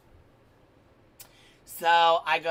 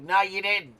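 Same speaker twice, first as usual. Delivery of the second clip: loud, higher insistent no you didn't; angry denial; 4 semitones higher, 8 dB louder than usual. Retold or imitated. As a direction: keep hammering the denial, raised and loud. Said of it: "I was like".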